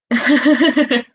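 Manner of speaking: short amused chuckle; a quick breathy laugh; light laugh. Real, not acted. Laughs after alarm quote.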